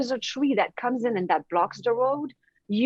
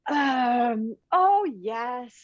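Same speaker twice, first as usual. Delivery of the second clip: near tears; much slower than usual. Retold or imitated. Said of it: "I'm just about to cry".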